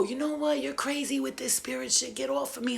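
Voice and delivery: high, exasperated imitation; retold angry retort. Acting out her angry retort.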